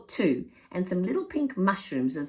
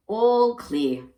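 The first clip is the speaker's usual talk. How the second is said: louder, higher glad call; cheerful cry; 6 semitones higher, 7 dB louder than usual. Acted. Pa tells the family the crossing is safe, calling out louder. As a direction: announce it's safe to cross. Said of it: "cried Pa".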